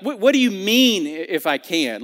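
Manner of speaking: mildly insulted, pushing the question; an offended challenge; slightly indignant retort. Shown as a demonstration. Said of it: "Like kind of insulted".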